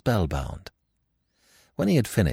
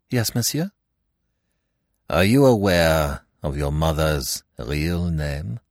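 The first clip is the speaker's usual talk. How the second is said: Poirot questioning. Acted.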